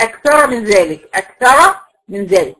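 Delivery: slow recitation of أكثر, final ra voweled as "ra"; ra joined, not stopped. Shown as a demonstration. Teacher shows word end mid-verse, slowly joining أكثر onward. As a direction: carry أكثر into من ذلك with an open heavy ra. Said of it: "في آخر الكلمة بس في وسط الآية".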